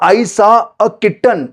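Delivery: slow, careful example sentence; teacher modelling a simple English sentence for students; slow model sentence. Shown as a demonstration. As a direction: say it slowly so learners can copy. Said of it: "अगर आपको कहना है कि".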